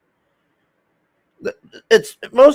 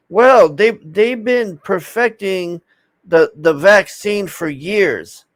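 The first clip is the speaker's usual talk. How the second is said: slow, higher mock-prim explainer; mocking the CDC lady; 5 semitones higher, slower than usual. Imitating the CDC lady on the show, slow mock reassurance. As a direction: parody her slow smug reassurance. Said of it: "And she's like".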